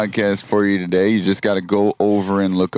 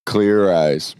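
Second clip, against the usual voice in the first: Ben Stein impression; 3 semitones lower than usual. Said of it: "he literally said".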